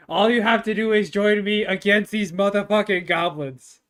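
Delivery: mildly vigorous in-character speech; rally the pack with some vigor. Acted. Bard rallying wolves against the goblins, mildly vigorous. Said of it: "with vigor and".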